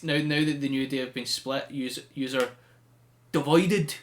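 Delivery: a light, strong Irish brogue, Sheamus style; mock Irish wrestler promo voice; imitating Sheamus's Irish accent. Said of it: "his Irish accent is tremendous".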